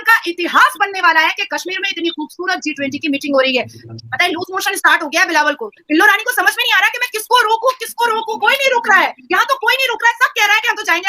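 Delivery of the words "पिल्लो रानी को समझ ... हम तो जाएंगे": higher-pitched mocking imitation of someone flustered; mock helplessness. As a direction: taunt with a hammed-up, high-pitched fret. Mocks rival as helpless, flustered.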